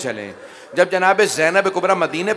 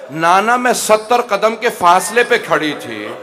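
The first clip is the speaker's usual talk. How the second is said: loud wailing lament; 3 semitones higher, 7 dB louder than usual. Acted. Zainab crying at the Prophet's tomb, loud lament. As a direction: wail it to her grandfather, building louder. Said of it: "बुलंद आवाज से रो के कहा".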